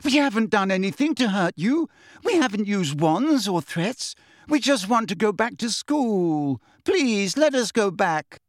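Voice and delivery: high, upset pleading; tearful plea. A narrator's reading. Hermione begging to return to school, tearful. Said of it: "real tears sliding down her face".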